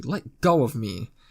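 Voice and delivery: mock gruff, harsh, angry voice, very slow and drawn out. Narrator voices a woman's reply when he whispers in her ear: gruff and angry. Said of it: "a gruff and angry".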